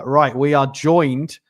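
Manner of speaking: excited welcome. Real, not acted. Welcoming co-host onto the stream.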